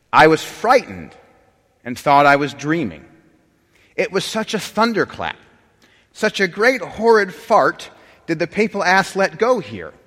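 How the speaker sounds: theatrical, mock-outraged scripture-style reading; dramatic reading. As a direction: read the crude quote with grand mock gravity. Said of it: "read through these two next quotes without laughing".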